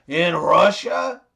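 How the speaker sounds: unhurried mock Russian accent. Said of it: "The Russian guy says".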